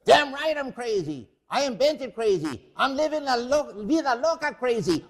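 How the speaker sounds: put-on swaggering Falstaff-style braggart bellowing at the kids; Fausto waking up. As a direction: roar it out like a drunken thief king. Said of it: "It's Fausto".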